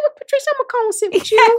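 high, country Cleveland lilt; Cleveland accent. Retold or imitated. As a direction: coax her warmly in Cleveland accent.

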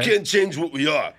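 lightly voiced Rocky; a touch of Rocky. Rocky insisting to Adrian, lightly voiced. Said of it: "you have the better Rocky".

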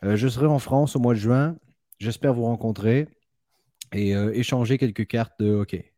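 a light put-on France French accent; lightly voiced France French, greeting the guys. Host greeting French collectors in a light France French accent. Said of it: "c'était mon meilleur, euh, accent français".

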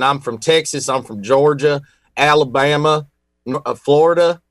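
blanket Southern accent; lightly imitated Southern accent. Shown as a demonstration. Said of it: "I just do this one. This is a blanket for all of 'em".

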